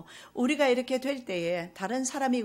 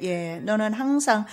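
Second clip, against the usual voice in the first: gentle father; 5 dB louder, slower than usual. Acted. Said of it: "부드러운 음성으로".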